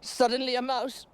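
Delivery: high, loud, breathless telling of a fright; frantic storytelling. Acted. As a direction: tell it as if the panic is rising. Tells the Mildred story at high pitch.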